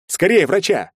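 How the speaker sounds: high, loud cry for help; panicked yell; urgent shout. A narrator's reading. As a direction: shout in alarm for a doctor. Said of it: "первым закричал я".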